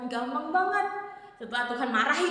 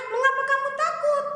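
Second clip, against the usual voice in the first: stern Lord; 12 semitones higher, 4 dB louder than usual. Acted. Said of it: "Ia berkata kepada mereka".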